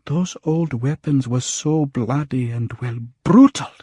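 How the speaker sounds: a shaken friend reliving the scene, voice rising; shaken Salima. Acted. Salima recounts finding Devi dead.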